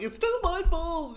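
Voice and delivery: high, drawn-out mock wail; mock self-blame. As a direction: wail it loudly like a guilt-ridden hero. Voicing hero who blames himself.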